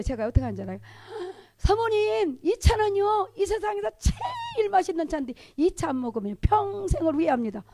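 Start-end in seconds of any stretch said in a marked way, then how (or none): 1.6-7.6 high, hammed-up pitch to a customer; playful sales pitch. Evangelist coaxing a married lady to drink tea, playful sales pitch.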